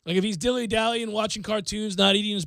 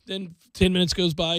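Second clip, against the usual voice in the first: ordinary delivery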